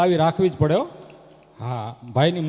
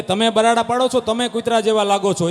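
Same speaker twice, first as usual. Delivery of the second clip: louder quarrel retort; shouting back; 3 semitones higher, 5 dB louder than usual. Retold or imitated. Wife yelling back at her husband, loud retort. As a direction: throw it back at him.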